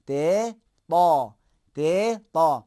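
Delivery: تے thin, تا full and heavy; te versus heavy ta. Shown as a demonstration. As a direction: contrast تے and تا clearly. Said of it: "تے کو موٹا کریں گے".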